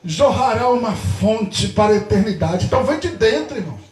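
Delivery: emphatic sermon delivery with stretched endings; forceful preaching. Real, not acted. Pastor telling congregation joy comes from within, forceful preaching. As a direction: preach it out with conviction.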